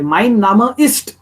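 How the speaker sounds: "ist" slow, rising, with a clear T; sounded final T. Shown as a demonstration. Teacher drilling the T, slow and clear "ist". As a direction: stretch the phrase and release the T of "ist". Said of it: "So it has to be t".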